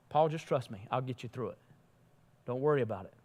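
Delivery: calm a frightened friend, softly; gentle reassurance. Acted. God's gentle answer to Paul.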